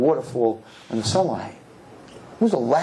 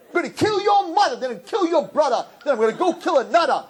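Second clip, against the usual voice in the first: mock rapper; 13 semitones higher than usual. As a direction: parody angry rap lyrics. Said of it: "screaming in your ear".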